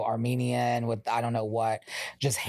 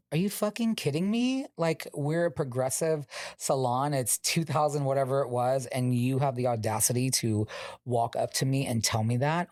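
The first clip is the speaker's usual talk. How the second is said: outraged; 2 semitones higher than usual. Retold or imitated. Quitting over manager's homophobic request.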